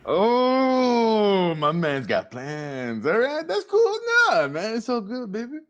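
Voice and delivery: high, put-on "it's all good" voice; fake chill. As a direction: pretend not to be bothered. NPC reacts with fake calm.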